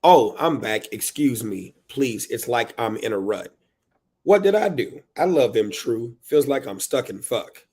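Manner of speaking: dramatic verse, punched openings; frustrated poem reading. Acted. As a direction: read it like a parent stuck in a rut. Performs book's frustrated parent.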